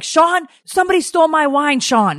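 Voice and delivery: high, urgent wail of alarm; retold panic. Wife calling friend about stolen wine, high panicked cry. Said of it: "So I'm like".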